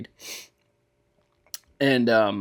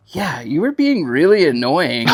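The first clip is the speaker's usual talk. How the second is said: laughing; 7 semitones higher, 5 dB louder than usual. Retold or imitated. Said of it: "she was like".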